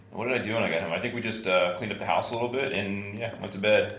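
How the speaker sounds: tired, froggy morning voice; groggy, just-woke-up voice. Real, not acted. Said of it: "sounds like I'm still tired 'cause I got the froggy, groggy voice".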